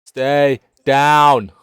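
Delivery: loud, high, forceful yell; shouted order. Acted. Character ordering crewmates down in the storm, shouting. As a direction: yell it hard, each word separate.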